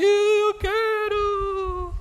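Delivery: very high, drawn-out whine; spoiled child whining for the toy. Retold or imitated. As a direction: wail like a spoiled toddler.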